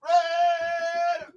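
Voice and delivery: high, soft, drawn-out faraway shout; distant answering call. Retold or imitated. Fan answering across the Coliseum, distant call. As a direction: imitate a far-off fan calling back. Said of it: "and you hear".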